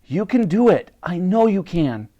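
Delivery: put-on high, encouraging girl's voice; piping up. A narrator's reading. Elsie encourages the despairing Titch, piping up. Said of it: "piped up Elsie".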